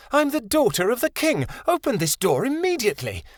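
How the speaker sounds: high, imperious princess voice; haughty demand. A narrator's reading. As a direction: order him like royalty. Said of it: "Chameleon snapped".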